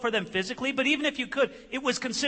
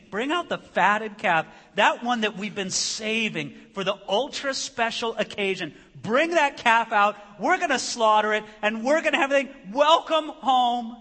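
jubilant father; 4 semitones higher, 6 dB louder than usual. Acted. Father ordering a feast for his son, jubilant. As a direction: build to a big, high welcome.

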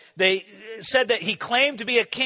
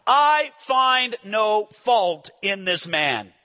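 solemn verdict; much slower than usual. Acted. Pilate's verdict read solemnly.

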